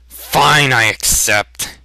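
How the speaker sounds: short, sharp snap; young man snapping at shopkeeper; snapped. Acted. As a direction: bite the words off. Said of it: "he snapped".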